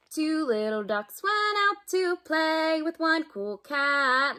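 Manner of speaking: lively storybook read-aloud for little ones; reading to children. Acted. Teacher reading a picture book to kids at home, lively. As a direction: read it like circle time, bright and playful.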